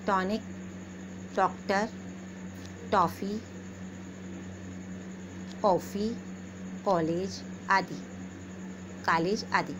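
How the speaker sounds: डॉक्टर with the open ऑ between आ and ओ; vowel between aa and o. Shown as a demonstration. Teacher modelling English loanword vowels for pupils. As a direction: round the vowel halfway to o. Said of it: "न तो आ रहा है पूरा और न पूरा ओ".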